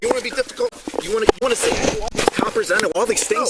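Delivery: loud, real scolding; forceful, heated confrontation; angry dressing-down. Real, not acted. Officer berates the detained man.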